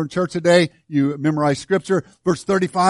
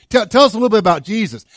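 eager asking; 6 semitones higher, 5 dB louder, much faster than usual. Acted. Acted questioner in imagined scene.

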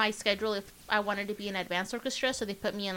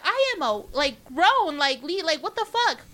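high-pitched indignant retort; indignant protest; 6 semitones higher, 3 dB louder, slower than usual. Retold or imitated. Woman insisting to phone agent she is grown, indignant. Retelling protest at being called girl.

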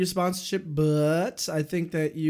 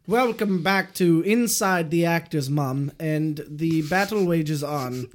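slow, hushed nature-show narrator; mock documentary narration; slower than usual. Host opens the segment in mock documentary voice. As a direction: play it like a grand documentary host.

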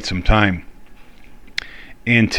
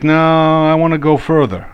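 higher, playful dog voice; 6 semitones higher than usual. Pretend. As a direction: voice the dog's reply, lightly. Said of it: "use that dog voice".

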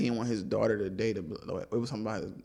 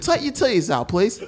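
high-pitched hammed-up British request; cheeky fake Brit, loud and high; mock British accent; 7 semitones higher, 4 dB louder than usual. Playing a Brit abroad for laughs, high mock British. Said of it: "I'm a Brit".

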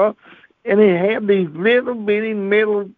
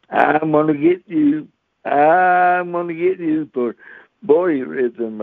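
threatening administrator. Retold or imitated.

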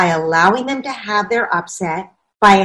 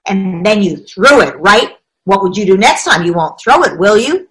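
lecturing parent; 5 dB louder than usual. Acted.

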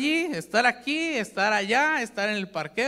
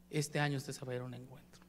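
"este año" said much lower and much softer; softer, lower repeat; 8 semitones lower, 12 dB quieter than usual. Shown as a demonstration. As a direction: drop the repeat to a low, soft near-murmur. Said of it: "repeats the promise, second time softer".

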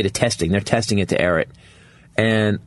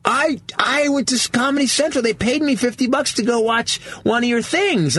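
barista voice; 13 semitones higher, slower than usual. Retold or imitated. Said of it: "the barista goes".

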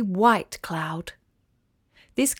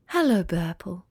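lower, softer sleepy sigh; 3 semitones lower, 3 dB quieter than usual. Acted. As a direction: sigh it like you were just woken. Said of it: "she sighed".

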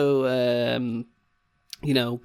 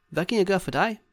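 assistant's question; 5 semitones higher, faster than usual. Acted. Acting the assistant asking a customer.

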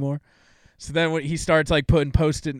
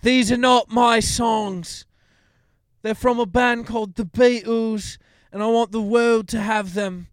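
slow, higher-pitched earnest confession; heartfelt confession; 7 semitones higher than usual. Retold or imitated. Singer confesses to the world that the songs aren't his, slow and earnest. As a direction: confess it slowly, with conviction.

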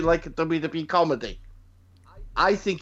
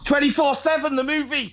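high, excited title reveal; excited announcement; 12 semitones higher than usual. Real, not acted. Pitching the speaker's own film to friends, excited announcement. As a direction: proclaim it like a big film title.

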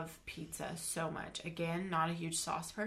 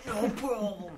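whisper yelling; 4 dB louder, slower than usual. Retold or imitated. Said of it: "why are you yelling".

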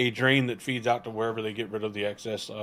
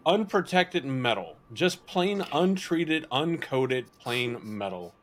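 sarcastic; 4 semitones higher than usual. Real, not acted. Sarcastic praise of metal pans.

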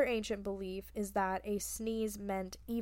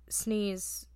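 whispered sneeze. Shown as a demonstration. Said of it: "and scream about it".

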